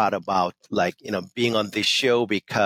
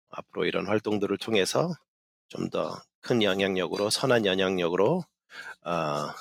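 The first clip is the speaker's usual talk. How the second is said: formal emcee speech; much faster than usual. Shown as a demonstration. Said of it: "a quick line in the three languages".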